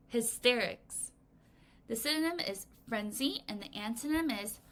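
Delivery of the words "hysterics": Hysterics said slowly and clearly, each syllable spaced; slow model word. Shown as a demonstration. Teacher models the word for children, slow and clear. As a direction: model Hysterics at a slow steady pace for the class to copy. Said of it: "Everyone say hysterics".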